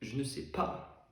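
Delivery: soft, slow. Acted. Lover at nightfall, softly and slowly. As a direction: let it fall, soft and slow. Repeated, softer and slower.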